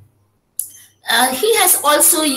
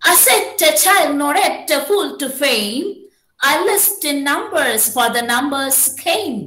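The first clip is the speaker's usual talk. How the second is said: put-on measured iambic beat, lifting "child"; rhythmic verse reading. Shown as a demonstration. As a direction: read it as metrical verse, pausing after "fame". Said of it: "How you must read this poetic line".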